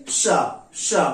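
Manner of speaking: sustained श hiss; श as a long hiss, tongue folded near the palate; sh sound. Shown as a demonstration. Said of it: "किसका उच्चारण करेंगे?". (लंबी श ध्वनि)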